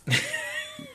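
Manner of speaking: long unvoiced sigh, imitated; exasperated exhale. Careers officer reacting to transfer plea, exasperated sigh. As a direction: blow out a hard breath as the put-upon officer.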